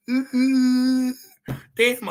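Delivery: laughing. Real, not acted. Laughing at his own joke.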